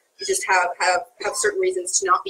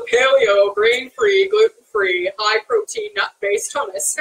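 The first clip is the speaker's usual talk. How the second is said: louder, punched-out label by label; put-on emphatic listing; 5 semitones higher, 4 dB louder, slower than usual. Real, not acted. Host showing off the recipe to Nicole, put-on emphatic listing. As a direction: reel off each selling point with mock importance. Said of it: "I have to say it like that".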